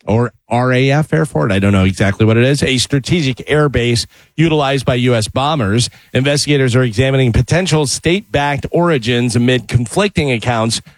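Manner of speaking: measured newscast delivery; news read. Acted. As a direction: read it as a radio news bulletin. Reads the news bulletin.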